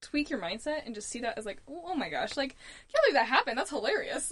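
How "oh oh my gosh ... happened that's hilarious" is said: amused disbelief, laughing through the words; chuckling oh my gosh. Retold or imitated. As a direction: laugh at your own bad luck, a little quicker. Laughing reframe of bad luck.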